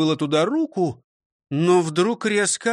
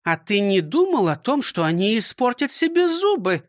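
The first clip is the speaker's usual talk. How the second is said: higher, scolding schoolmistress voice; stern old teacher; 6 semitones higher than usual. Acted. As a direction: lecture him like a strict teacher. Teacher asks pointedly. (строгая учительница)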